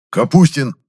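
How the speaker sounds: loud, high roared name. A narrator's reading. Chemist roaring at his apprentice. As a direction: roar the name. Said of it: "прорычал аптекарь".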